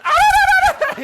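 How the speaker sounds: very high, loud trilled shriek; hammed-up ululation of welcome; joyful ululation. Shown as a demonstration. Showing wives how to greet husbands, loud joyful ululation. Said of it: "이렇게 하면 돼요".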